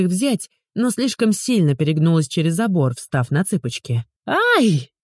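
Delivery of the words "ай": sudden high shriek of fright; a startled yelp as she tips over the fence; frightened squeal. A narrator's reading. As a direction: squeal as you lose your footing. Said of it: "взвизгнула от испуга".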